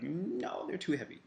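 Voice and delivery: mock scared protest; whiny refusal. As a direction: balk like frightened people. Israelites refusing to enter Canaan.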